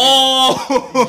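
high-pitched "oh" of dawning understanding; sudden realization. Real, not acted. Co-host finally getting what the rubbed skin means, amazed. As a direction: let the penny drop with a high cry.

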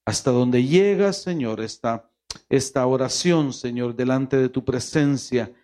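steady, pleading prayer voice; fervent prayer. Acted. Pastor prays aloud to God for grieving families, fervent pleading prayer. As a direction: intercede for the families, earnestly.

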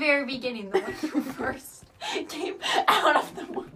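holding back laughter while teasing; trying not to laugh through it; stifled giggles. Real, not acted. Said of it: "Why'd you stutter so bad".

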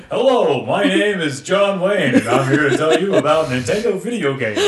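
swagger through it like a western star; John Wayne. Retold or imitated. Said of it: "he goes, like, full John Wayne".

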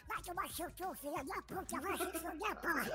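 duck voice, high and squawky; voz de Pato Donald. Acted. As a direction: swear like a cartoon duck. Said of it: "tem que fazer voz de Pato Donald". (voz de pato de desenho, aguda)

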